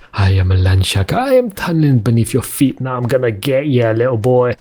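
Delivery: hammed-up cockney land shark; mock-menacing cockney villain. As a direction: taunt playfully in a put-on cockney accent. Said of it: "I'm a cockney shark".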